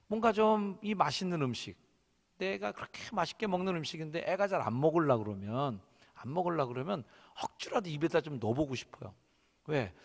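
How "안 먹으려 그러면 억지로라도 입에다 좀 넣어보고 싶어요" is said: ordinary delivery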